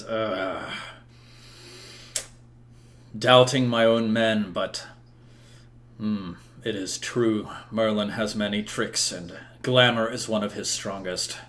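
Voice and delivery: brooding king. Acted. Game master voices King Uther.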